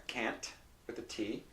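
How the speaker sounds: "Can't" with a crisp released T; clear T in can't. Shown as a demonstration. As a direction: say "Can't" touching the gums for a clear T. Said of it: "that T is t".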